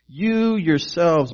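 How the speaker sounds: "you" held and weighted before "yourselves"; stress on YOU YOURSELVES. Shown as a demonstration. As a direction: put the emphasis on "you yourselves". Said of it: "it's emphasized in the original language".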